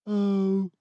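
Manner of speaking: high, surprised little oh; a startled oh from Boris; mild surprised oh. A narrator's reading. Boris caught off guard, a high surprised oh. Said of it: "said Boris".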